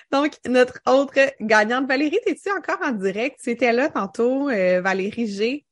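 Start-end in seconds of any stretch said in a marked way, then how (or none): 0.1-1.9 annonce officielle. Pretend. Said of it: "comment que je fais ça full official".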